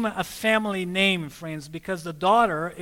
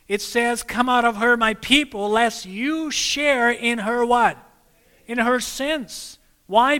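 higher, pressing sermon voice; rising preaching; 4 semitones higher, 4 dB louder than usual. Acted. Preacher warning the congregation to leave Babylon, fervent. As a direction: urge them on with growing fervor. Preaching builds to full force.

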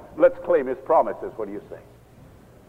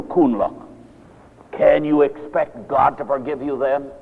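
stern warning; 4 semitones lower than usual. Retold or imitated. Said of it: "A very stern look".

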